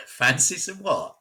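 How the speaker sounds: high, loud baffled echo of the slang; incredulous. Real, not acted. Hearing the odd slang, a loud baffled question. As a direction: blurt it back, unbelieving. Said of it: "Say that again".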